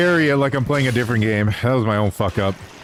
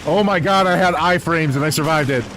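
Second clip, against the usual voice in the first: excited; 3 semitones higher than usual. Real, not acted. Surviving explosion in game.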